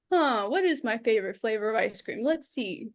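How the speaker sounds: a hint of thinking aloud, drawn out and trailing off; mock a speaker stalling for time; slow hesitant stalling. Shown as a demonstration. Speaker mocking a contestant who repeats the question, stalling. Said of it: "So rather than repeating".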